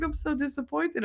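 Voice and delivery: mock sulky whine. Pouting self quoted.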